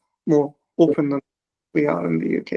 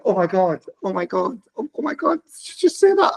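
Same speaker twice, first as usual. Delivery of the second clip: retold shock, climbing much higher; mock-scandalised, rising to a high disbelieving question; 3 semitones higher than usual. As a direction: act out being taken aback. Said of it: "you can be so shocked".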